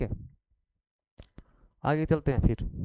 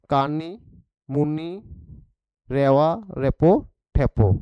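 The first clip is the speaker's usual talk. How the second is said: slow finger-name list; slower than usual. Shown as a demonstration. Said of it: "Khortha में बोलते हैं ना हम लोग".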